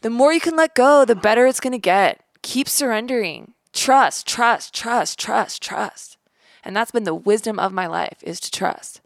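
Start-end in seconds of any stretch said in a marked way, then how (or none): 0.0-6.2 high, lifted, coaxing teacher voice; spiritual teacher. Retold or imitated. Teachers urging students to surrender, high coaxing guru voice. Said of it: "teachers in times of freedom say".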